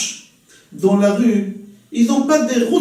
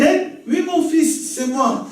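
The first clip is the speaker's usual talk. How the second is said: gentle rabbi voice; 5 semitones higher, slower than usual. Retold or imitated. Hillel gently answers the provocateur.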